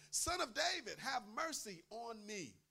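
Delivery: high, loud pleading cry, slowing on mercy; desperate cry. Retold or imitated. Preacher voicing the blind man crying out loud. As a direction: cry out to be heard over a crowd. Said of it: "he cried out all the more".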